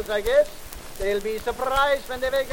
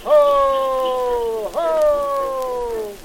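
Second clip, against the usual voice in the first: Santa driving reindeer. Acted. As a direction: shout orders to the reindeer from the sleigh. Santa calling to his reindeer.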